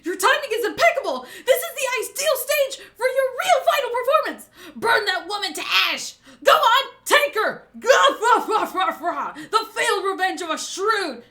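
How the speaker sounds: loud, high, crowing triumph; hammed-up evil glee, dragging out the last word; gloating villain. Orochi ordering Kanjuro to burn her, gloating.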